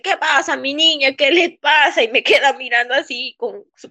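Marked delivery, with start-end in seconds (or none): 0.0-2.0 lightly put-on Cuban accent, pitched up; higher voice imitating a Cuban doctor; acento cubano imitado. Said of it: "tiene su acento así cubano". (imitando el acento cubano)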